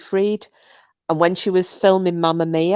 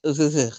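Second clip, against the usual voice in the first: disgusted ugh; 7 semitones lower, 4 dB quieter, much faster than usual. Real, not acted. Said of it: "I hate the word moist".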